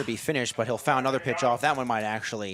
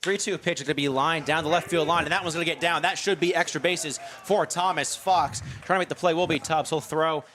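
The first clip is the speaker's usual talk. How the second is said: excited play-by-play; 5 semitones higher than usual. Real, not acted. Hit lined down the line.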